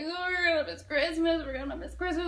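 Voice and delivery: hammed-up tearful complaint; mock crying. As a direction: imitate girls crying over a disappointment. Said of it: "the girls are crying".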